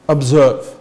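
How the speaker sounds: "observe" set apart after a pause, low and deliberate; stress on observe. Shown as a demonstration. Preacher closing on the key word "observe", emphatic. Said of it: "The emphasis, in closing, is".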